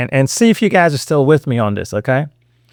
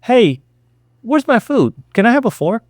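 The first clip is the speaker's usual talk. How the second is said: higher, polite and casual asking; calm request; 8 semitones higher than usual. Shown as a demonstration. Customer whom nobody notices, calm polite request. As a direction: ask lightly, with no demand in it.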